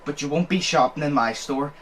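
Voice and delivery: imitated sarcasm turning to refusal; mock agreement, then the put-down; sarcastic. Shop guy refusing the maskless customer, sarcastic. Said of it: "I didn't expect the change".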